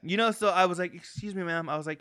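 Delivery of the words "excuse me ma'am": soft, sugary and polite; put-on sweet nice-guy voice. Asking the clerk again, mock sweet and soft. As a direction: coax her gently, extra sweet. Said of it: "I even put on my, "I'm so nice, I may be gay" voice".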